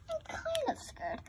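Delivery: high whispered doll voice; scared whisper. Pretend. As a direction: breathe it out, half afraid. Doll admits fear.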